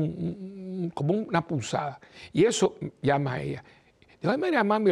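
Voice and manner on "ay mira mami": calling mom. Retold or imitated. Calling mother about the pain.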